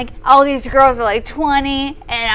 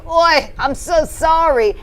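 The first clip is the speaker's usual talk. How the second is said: Esther Schwartz; 3 semitones higher, 4 dB louder, slower than usual. Acted. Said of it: "talking to her in my character, Esther Schwartz".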